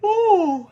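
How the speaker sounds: loud, high yawning ooh; real yawn. Real, not acted. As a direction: let out a big yawn on an ooh. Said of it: "Excuse me while I yawn".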